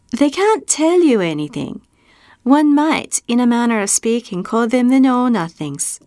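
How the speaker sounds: high, amused monkey voice; giggling monkey. A narrator's reading. Little gray monkey teasing Bastian, high and amused. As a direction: talk like a cheeky little monkey. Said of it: "he heard someone giggling".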